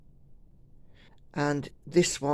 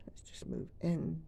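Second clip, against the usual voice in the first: whispering; 3 semitones higher, 10 dB quieter than usual. Real, not acted. Moving close to the camera.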